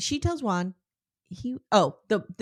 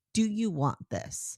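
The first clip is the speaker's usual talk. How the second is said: put-on weepy, tearful, crying voice; 4 dB quieter than usual. Retelling a scene, the speaker voices a woman who is crying: imitating someone crying. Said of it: "crying now".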